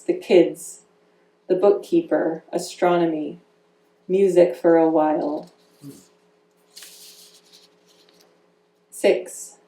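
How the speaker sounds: measured, deliberate poem recital; poetry reading. Acted. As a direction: give each image its own weight, reading to an audience. Reads her poem in parts.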